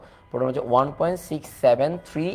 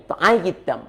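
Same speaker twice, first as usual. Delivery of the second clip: Chittagonian dialect; 3 semitones higher than usual. Shown as a demonstration. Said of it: "চাটগাইয়া ভাষায়".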